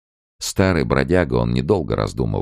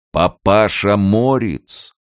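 slow, loud, high call; 9 semitones higher, 6 dB louder, much slower than usual. A narrator's reading. Gatekeeper calls again to the hiding emigrant, loud slow call. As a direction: draw the name out like a call across distance. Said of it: "снова крикнул голос".

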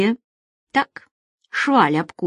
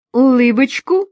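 higher, louder shout to a crowd; called out; 6 semitones higher, 6 dB louder than usual. A narrator's reading. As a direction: call out for everyone to smile. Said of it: "вдруг выкрикнул кто-то".

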